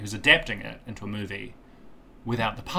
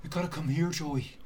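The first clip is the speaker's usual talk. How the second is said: put-on British accent. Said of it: "do it in an accent that is acceptable".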